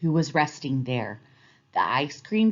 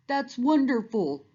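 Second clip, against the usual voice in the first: gaily; 7 semitones higher than usual. A narrator's reading. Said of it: "said Moose gaily".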